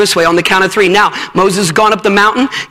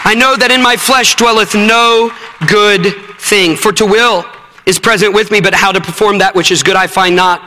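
scripture reading; 3 semitones lower than usual. Real, not acted. Reads Romans passage at close.

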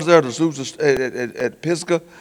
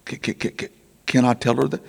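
stunned stammer; 2 semitones lower, 5 dB quieter than usual. Retold or imitated. Stunned stammer answering God.

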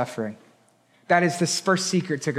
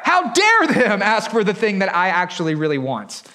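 acted jealous outrage. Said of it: "and then they get jealous".

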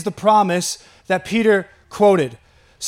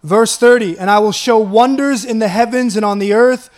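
scripture reading; 4 dB louder than usual. Acted. Reads scripture aloud with force.

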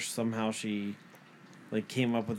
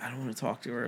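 reluctant face; 8 dB quieter, faster than usual. Retold or imitated. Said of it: "made a face like".

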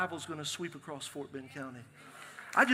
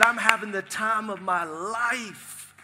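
joyful; 4 dB louder, slower than usual. Retold or imitated. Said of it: "He said".

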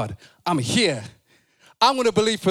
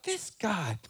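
incredulous; 8 semitones higher than usual. Retold or imitated. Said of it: "Philip's like".

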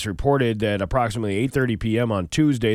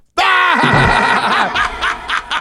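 shouting laugh; 7 dB louder than usual. Real, not acted. Punchline laugh.

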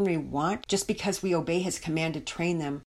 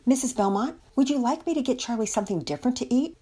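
lightly higher-pitched, helpful question; sympathetic offer; 6 semitones higher, faster than usual. A narrator's reading. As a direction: gently offer help in a lifted, quick voice. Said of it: "looked on sympathetically".

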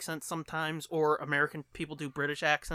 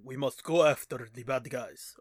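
stern knight voice; 5 semitones lower than usual. Retold or imitated. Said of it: "in Game of Thrones, he's like".

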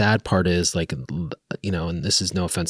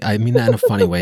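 dry sarcastic jab, louder; 2 semitones higher, 5 dB louder, faster than usual. Real, not acted. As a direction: say it with a sarcastic edge. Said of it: "I'm being very sarcastic".

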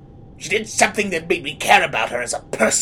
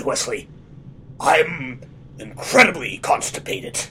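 Fisk impression; 3 semitones lower, 4 dB quieter than usual. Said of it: "That's why I sound like this".

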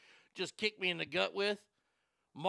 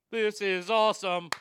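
excited; 3 semitones higher, 9 dB louder than usual. Real, not acted. Excited about the wrestling match.

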